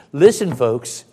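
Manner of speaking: loud preacher's appeal; emphatic call. Real, not acted. Preacher urges the congregation to heed him, loud emphatic call. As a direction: call the room to attention, loudly.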